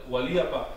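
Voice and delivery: "gualiapa" with a clear EE before the final syllables; original pronunciation. Shown as a demonstration. Teacher tracing how the Spanish changed it, original pronunciation. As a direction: demonstrate "gualiapa" as the older form. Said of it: "And then from this".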